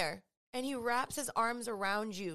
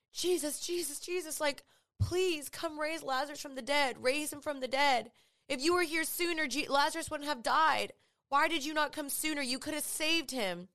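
pleading sisters; 4 semitones higher than usual. Acted. Mary's sisters begging Jesus.

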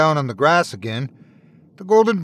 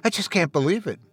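softer, falling, stress on "I"; quieter, overwhelmed repeat; tearful disbelief; 3 semitones higher, 4 dB quieter, faster than usual. A narrator's reading. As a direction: let "I just can't" sink in tears. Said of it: "through his tears".

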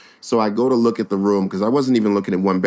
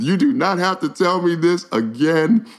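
excited; 7 semitones higher than usual. Real, not acted. Exasperated relieved tenant.

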